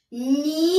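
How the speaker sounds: loud, stretched "Mi" standing alone; "Mi" sounded out strongly for pupils; single beaten syllable. Shown as a demonstration. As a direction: hold "Mi" long, as one clapped beat. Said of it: "et je frappe".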